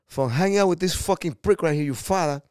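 a hint of a tough New York actor ribbing; quoting Pacino. Pacino teasing the kid about his father, mildly tough. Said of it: "He goes".

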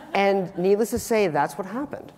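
ordinary delivery

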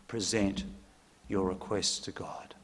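fading to an unvoiced whisper. Shown as a demonstration. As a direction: let the verse dissolve into a hush. Closing repeat fading to whisper.

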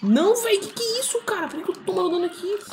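very high wail of disbelief; outraged squeal. Real, not acted. Gamer taking damage unexpectedly, high outraged wail.

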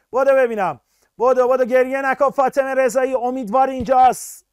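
energetic teacher pushing students to respond; urging on. Real, not acted. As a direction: cheer the class into answering. Teacher urging class to hurry.

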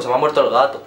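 strong Almería accent on every word; Andalusian Spanish. Shown as a demonstration. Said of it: "Lo digo así como muy almeriense".

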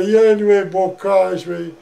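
mock childish howl of complaint; retold bawling. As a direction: bawl it out, then let it sag. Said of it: "Am țăpat și am țăpat".

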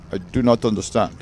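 put-on Native American accent; mock Native American accent in a retold reply. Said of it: "You like my Indian accent?".

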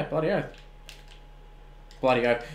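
Aussie slang. Real, not acted. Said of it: "Oh, I'm talking Aussie now".

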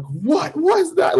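high, stretched-out disbelief; retold freak-out. Man retelling turning round on his bed, freaking out. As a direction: draw the words out, slow and incredulous. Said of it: "I'm freaking out".

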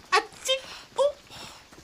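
high squeaky fake sneeze, rising; mock sneeze demo. Shown as a demonstration. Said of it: "termina en, en u".

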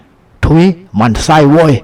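slow, high-pitched mock jeer; taunting shout. A narrator's reading. Henchman jeering at the young lawyer, provoking mock shout. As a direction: drag it out high to provoke, without real volume. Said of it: "ตะโกนเสียงดังอย่างยียวน".

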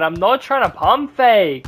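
fed-up muttered protest; annoyed complaint. Real, not acted. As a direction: say it again, irritated but not shouting. Repeats complaint less loudly.

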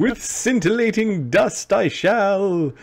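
high, slow theatrical yell; yelling in character. Acted. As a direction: proclaim it grandly from afar, stretched out. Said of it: "You hear him yelling".

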